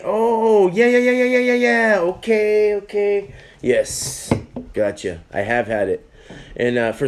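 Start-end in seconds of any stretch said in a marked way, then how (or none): 0.0-3.3 high, louder burst of recognition; excited realization. Real, not acted. Suddenly remembering a beer, excited realization.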